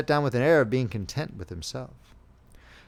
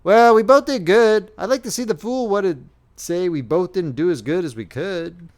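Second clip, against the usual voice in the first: soothing; 5 semitones higher, 8 dB louder than usual. A narrator's reading. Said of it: "spoke soothingly to his comrade".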